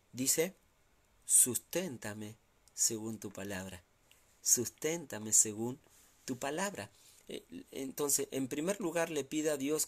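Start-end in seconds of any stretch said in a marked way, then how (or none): 1.2-6.9 slow prayer. Acted. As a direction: draw each word out as a humble plea. Quoting the psalmist's prayer.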